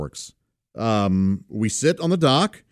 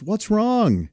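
imitated niece asking; 8 semitones higher than usual. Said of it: "And she goes".

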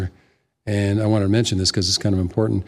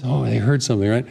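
usual speaking voice

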